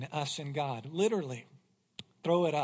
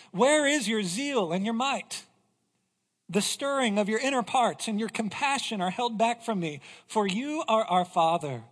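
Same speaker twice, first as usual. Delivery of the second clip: impassioned scripture reading. Acted. Preacher pressing the verse on his church, more adamant. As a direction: plead the verse out with force.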